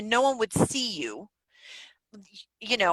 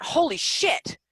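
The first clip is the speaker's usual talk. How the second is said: higher-pitched retold amazement; amazed realisation; 6 semitones higher, much slower than usual. Podcaster retelling a sudden idea, amazed. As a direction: exclaim as the idea lands.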